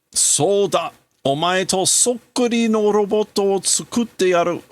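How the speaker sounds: high, eager scientist voice; excited scientist. Acted. Scientist declaring to his dead son he'll build a robot, eager. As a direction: announce the plan with mad glee.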